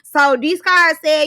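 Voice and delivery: ordinary talk, nothing marked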